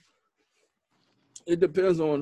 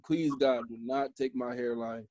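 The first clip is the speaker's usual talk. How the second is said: mock prayer; 3 dB quieter than usual.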